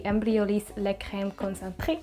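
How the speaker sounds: imperfect attempt at French pronunciation; French product name in a loose French accent; poor French accent. Real, not acted. Vlogger naming her moisturizer to viewers, not-so-good French accent. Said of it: "that was not my best French accent".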